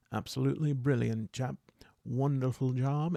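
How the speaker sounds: lightly put-on British accent; a hint of chummy British chap. Knight Aaron praising his fellow trainee, light British accent. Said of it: "gonna give a accent to".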